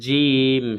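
জিম held long with a hard, firm j; firm jim. Shown as a demonstration. Quran teacher showing learners that জিম is hard, firmly pronounced. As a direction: press the j of জিম firmly and stretch it. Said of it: "শক্ত করে হবে".

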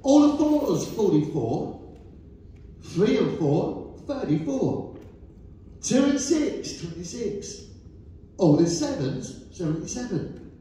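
rising call, then number settles down; bingo caller. Acted. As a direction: sing out each number to the hall. Calling bingo numbers to hall.

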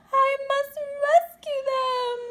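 high whispered urgency; determined to save them; urgent breathy resolve. Acted. Stellaluna about to rescue her friends, urgent.

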